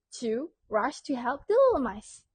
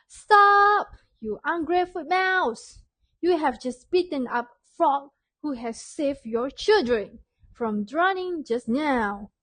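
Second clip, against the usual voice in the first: scolding shout; 2 semitones higher, 6 dB louder than usual. Acted. Mouse Deer yells at Daddy Mouse for beating Frog, scolding. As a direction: bark "Stop!" then scold hard. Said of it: "And Mouse Deer shouted".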